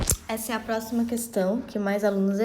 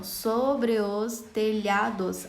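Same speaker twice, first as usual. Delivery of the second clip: slow scansion; much slower than usual. Shown as a demonstration. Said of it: "contagem de sílaba poética".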